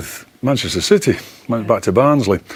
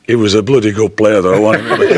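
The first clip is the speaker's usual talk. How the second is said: grudging fan; 4 semitones lower than usual. Retold or imitated. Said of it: "somebody says".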